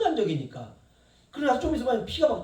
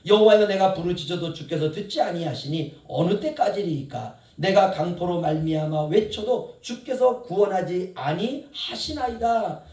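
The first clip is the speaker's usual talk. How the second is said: solemn, louder scripture-style plea; Habakkuk's cry to God; 4 dB louder than usual. Acted. Preacher voicing Habakkuk crying out to God, solemn plea. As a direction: raise the old lament to God. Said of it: "하박국이 이렇게 하나님께 묻습니다".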